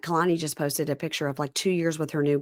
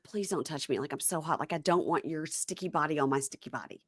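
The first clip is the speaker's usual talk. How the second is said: mock weary plea; 10 dB quieter than usual. Quoting overheated man, muted.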